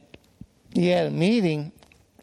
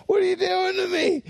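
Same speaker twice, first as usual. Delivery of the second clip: mock outraged yell at a stranger; mock angry shout; 14 semitones higher, faster than usual. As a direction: shout it like someone just hit you. Angry man turns to punch.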